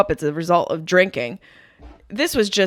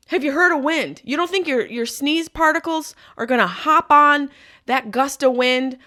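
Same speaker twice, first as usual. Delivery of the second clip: sassy rant; 4 semitones higher than usual. Retold or imitated. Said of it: "and it's like".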